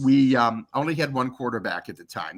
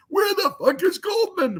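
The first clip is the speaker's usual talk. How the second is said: high, strained imitated yell; Schembechler yelling. Coach storms into the media house, yelling. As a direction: holler it like a coach bursting in. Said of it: "I hear Schembechler yelling".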